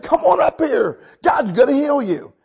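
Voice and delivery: loud, high summons; calling people forward. Retold or imitated. Preacher calls the sick up for healing, shouting confidently. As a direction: shout them up to the front.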